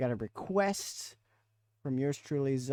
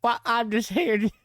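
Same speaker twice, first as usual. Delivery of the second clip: hillbilly redneck voice; 7 semitones higher, 6 dB louder than usual. Acted. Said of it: "wear your voice out".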